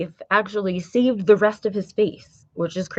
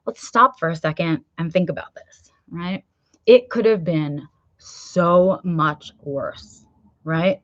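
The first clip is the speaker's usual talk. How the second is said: calm reassurance. Retold or imitated. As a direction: gently settle him down. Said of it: "I took a deep breath and I said".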